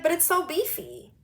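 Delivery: high, drawn-out mock protest; mimicked coworker whining. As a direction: imitate her pleading excuse, slow and high. Voicing coworker who grabbed her.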